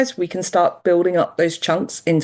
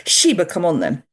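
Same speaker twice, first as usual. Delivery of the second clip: flat tone. Shown as a demonstration. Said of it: "we tried to do it in a very flat tone".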